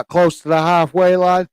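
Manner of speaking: talking through a yawn; words stretched by a yawn. Real, not acted. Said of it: "I'm yawning my head off here".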